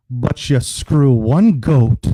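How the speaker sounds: put-on very slow punchline in a rough Scottish accent; bad Scottish accent. Old man in the pub delivers the punchline, slow mock-Scottish. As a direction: drag out each word, lightly Scottish. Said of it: "It's supposed to be a Scottish accent".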